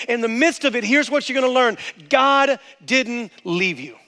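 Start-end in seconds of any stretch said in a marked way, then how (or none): 2.1-4.0 slow, tender reassurance. Acted. Slow emphatic pastoral line.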